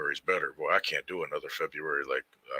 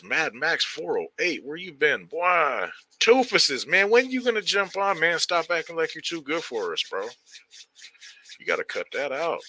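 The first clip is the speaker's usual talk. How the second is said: much higher, louder, playful hollering at a friend; teasing call-out; 9 semitones higher, 3 dB louder than usual. Real, not acted. Streamer hollering at absent buddy Toofus, teasing. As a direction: rib him loudly, half joking.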